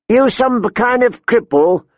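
high-pitched, blunt question; scornful woman brigand. A narrator's reading. Short woman to strapped-in boy, scornful. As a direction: challenge him in a high voice.

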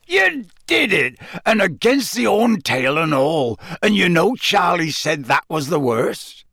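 high start, excited hoarse voice; hoarse cheer. A narrator's reading. Hagrid marvelling that Harry beat the worst dragon, hoarse. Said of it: "said Hagrid hoarsely".

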